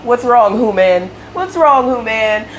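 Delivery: high-pitched voice for a worried dog; imagined dog voice. Retold or imitated. Dog licking its upset owner, asking in a dog voice. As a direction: ask it high, as a concerned pet would. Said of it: "she's just looking at me and licking me like".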